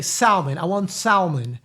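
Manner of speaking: "salmon" with a sounded L; mispronounced. Shown as a demonstration. Mimicking people here ordering, L pronounced. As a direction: stress the wrongly voiced L in "salmon". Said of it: "the L is silent".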